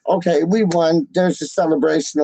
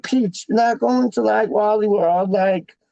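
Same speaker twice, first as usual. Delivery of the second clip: imitating Wally; 4 semitones higher than usual. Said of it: "And he's like".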